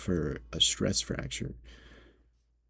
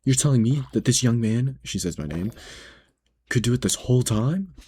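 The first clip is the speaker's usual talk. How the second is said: higher, louder indignant customer voice; a hint of an outraged shopper, pitched up; mimicking the customer; 5 semitones higher, 4 dB louder than usual. Customer snapping at the manager, higher and louder.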